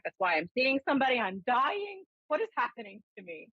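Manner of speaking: mock panic, rushing the words; retold panic. Retold panic at a heart attack.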